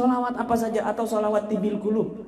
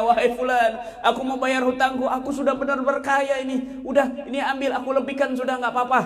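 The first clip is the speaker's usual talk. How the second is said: rich man's voice; 7 semitones higher, faster than usual. Acted. Rich man repays the debtor.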